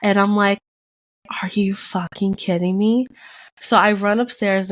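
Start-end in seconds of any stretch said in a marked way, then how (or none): 1.4-3.1 retold stunned whisper; whispered disbelief. Woman seeing a second positive pregnancy test, stunned whisper.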